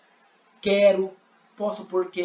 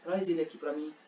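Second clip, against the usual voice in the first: Jesus speaking; 5 semitones lower, 8 dB quieter than usual. Acted. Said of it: "E Jesus falou".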